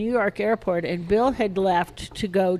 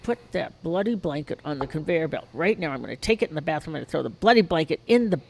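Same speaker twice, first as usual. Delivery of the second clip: retold exasperated order; 2 semitones lower, faster than usual. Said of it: "So I said".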